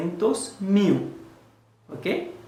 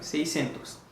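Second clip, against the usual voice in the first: soft repeat; 6 dB quieter than usual. Shown as a demonstration. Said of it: "Ou di se sis".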